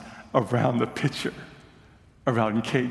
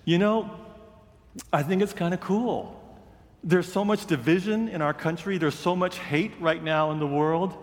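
quoting the coach with fervor; 5 semitones higher than usual. Retold or imitated. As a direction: pitch it up and press the point like a preacher. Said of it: "Coach Copeland said".

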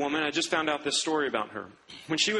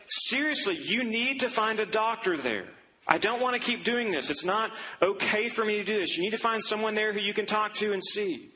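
exasperated brother; 3 semitones higher than usual. Retold or imitated. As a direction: scold her like a tired older brother. Exasperated brother scolds his sister.

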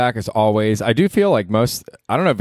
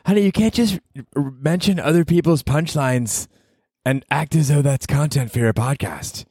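higher put-on partner voice, gently chiding; scolding partner; 7 semitones higher than usual. Partner calling out his stolen punchline, in a higher chiding voice. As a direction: chide him like an unimpressed girlfriend.

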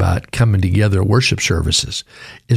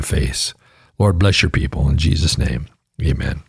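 prayer. Acted.

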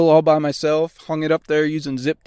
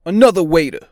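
mock DJ tag; 3 semitones higher, 6 dB louder, faster than usual. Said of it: "I'm gonna start doing that".

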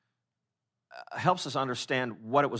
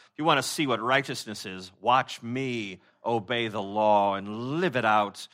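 slow, self-righteous show-off voice; boastful Pharisee; 3 semitones lower than usual. Retold or imitated. Pastor voicing a Pharisee bragging about obedience, slow and boastful. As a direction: lean into it like a proud law expert.

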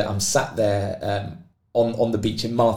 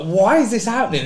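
acted exasperation; 10 semitones higher, 4 dB louder than usual. Acting out despair mid-swim.

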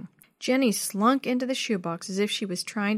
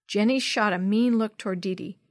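usual speaking voice

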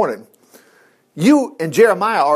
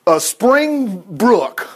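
whiny complaint; 4 semitones higher than usual. Retold or imitated. Preacher voicing Jeremiah's sulky complaint to God, whiny. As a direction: grumble at God like a sulky prophet. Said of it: "Jeremiah just said".

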